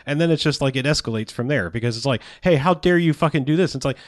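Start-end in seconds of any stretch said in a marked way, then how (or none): 2.4-3.7 higher, affronted acted protest; mock indignation. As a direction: imitate a hypocrite taking offence. Acted outrage as conflict escalates.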